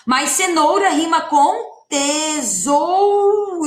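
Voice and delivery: tesoura and cenoura said slowly, ending held; slow down and lean on oura; teacher spelling out the rhyme; slow stressed rhyme. Shown as a demonstration. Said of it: "Ó o oura, final da sílaba".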